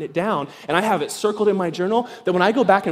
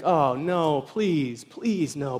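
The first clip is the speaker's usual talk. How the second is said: mock dread; 3 semitones lower, 4 dB quieter, much slower than usual. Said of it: "you think".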